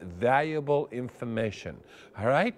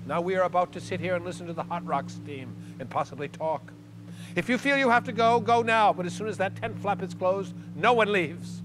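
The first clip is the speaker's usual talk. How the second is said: measured, commanding reprimand; stern leader. Retold or imitated. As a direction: imitate a ceremony leader laying down rules. Leader scolds after someone flees.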